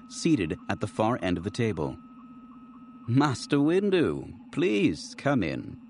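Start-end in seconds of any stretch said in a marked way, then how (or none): 3.1-5.8 thin, frail, slowed greeting; a thin, fragile host's welcome. Acted. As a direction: draw the welcome out thinly and slowly. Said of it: "Gepton's voice was thin".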